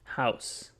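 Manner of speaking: "House" said plainly with an ow vowel; asked-for pronunciation of house. Shown as a demonstration. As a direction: say "House" to rhyme with mouse. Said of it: "Russ, say house".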